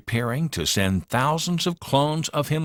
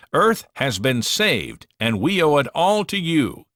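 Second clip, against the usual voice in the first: proud president; 5 semitones higher, 3 dB louder than usual. Acted. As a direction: proclaim it to the cheering crowd. President thanks monsters, crowd cheering.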